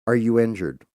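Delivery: calm son. Retold or imitated. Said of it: "calm as shit, exactly like this".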